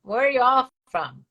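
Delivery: hammed-up Southern accent; Texas accent. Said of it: "You like the way I've developed a Texas accent?".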